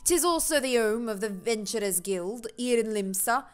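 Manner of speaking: put-on Jamaican accent. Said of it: "That was the switch into Jamaican".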